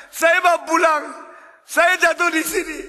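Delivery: high, loud reply from the pit; drunk man answering. Acted.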